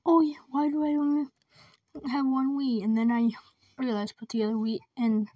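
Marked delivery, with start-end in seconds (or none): 0.1-2.8 mock realization. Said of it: "I was like".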